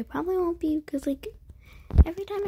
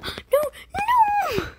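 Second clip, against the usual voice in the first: frustrated outburst; 6 dB louder than usual. Real, not acted. Frustrated by game failure.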